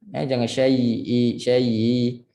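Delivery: "syai'i" with a slack "i"; wrong loose "syai'i". Shown as a demonstration. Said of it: "I, i ketat".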